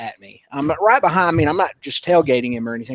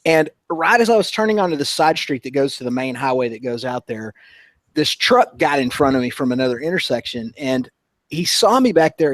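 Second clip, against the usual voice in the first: ordinary talk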